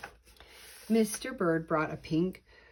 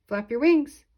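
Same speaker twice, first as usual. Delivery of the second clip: put-on loud, higher call to the flying baby; yelling; 7 semitones higher, 11 dB louder than usual. A narrator's reading. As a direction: yell up at Junior in the air. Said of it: "yelled Missus Bird".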